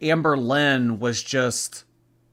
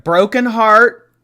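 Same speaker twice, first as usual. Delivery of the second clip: drawn-out announcer; 7 semitones higher, 9 dB louder, slower than usual. Pretend. Dramatic game-show choice.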